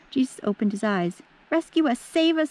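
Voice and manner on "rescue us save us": high, frightened cries for rescue; shrieking plea. Acted. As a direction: beg to be saved, voice up high. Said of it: "they shrieked".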